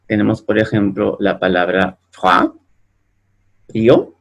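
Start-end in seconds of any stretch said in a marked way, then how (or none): 2.1-2.5 froid said with French wa, frwa; French oi sound. Shown as a demonstration. Teacher showing the oi sound to students, careful. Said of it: "se pronuncia wa".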